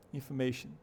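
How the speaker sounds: INFORMATION as "in-fuh-MAY-shun"; weak "uh" where INFORMATION has its O; schwa for O. Shown as a demonstration. Teacher repeating the example word, schwa replacing O. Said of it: "tem um chua ali".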